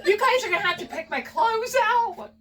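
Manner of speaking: high, loud, giggly words; laughing while talking. Real, not acted. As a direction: talk through your laughter. Giggling over the gift.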